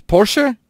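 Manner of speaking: "Porsche" as POR-shuh, high questioning rise; Porsche ending in "uh". Shown as a demonstration. Asking how it goes in English, "Porsche" as por-shuh. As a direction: say "Porsche" with a final "uh". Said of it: "How do you really pronounce it".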